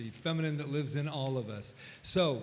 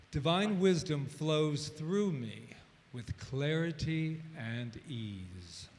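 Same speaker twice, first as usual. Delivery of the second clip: reciting by rote; much slower than usual. Shown as a demonstration. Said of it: "I'll say it once".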